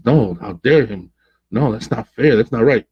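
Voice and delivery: imitated anger at being lied to; retold indignation. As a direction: act out a hurt friend's protest. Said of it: "It was a mixture of angry, upset, hurt".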